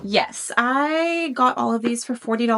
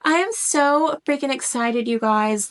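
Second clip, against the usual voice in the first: bursting excitement; 2 semitones higher, 4 dB louder than usual. Real, not acted. Bursting excitement after whisper.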